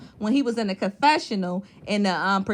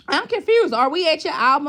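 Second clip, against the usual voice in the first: higher, a touch louder, fake puzzlement; imitating an annoyed bride's sarcastic question; mock confused; 4 semitones higher, 3 dB louder than usual. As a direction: ask it like you already know the answer. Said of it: "She was pissed off".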